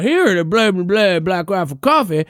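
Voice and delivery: lightly voiced ad pitchman rattling off a slogan; a hint of a hyped brand spokesman; mock commercial read, tossed off; Matt Best impression. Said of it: "Matt Best, who".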